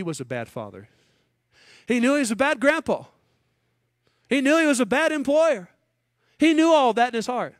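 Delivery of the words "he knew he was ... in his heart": preaching at full force. Acted. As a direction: proclaim it from the pulpit with full force. Preaching peak on Laban.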